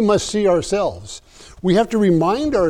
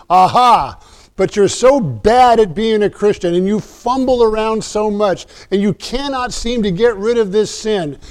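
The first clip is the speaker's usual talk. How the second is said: mock exasperated scold, higher than usual; scolding God; 5 semitones higher than usual. Preacher mocks an imagined nagging God, mildly scolding. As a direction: play a nagging disappointed God, lightly voiced. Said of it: "He doesn't then add in that same verse".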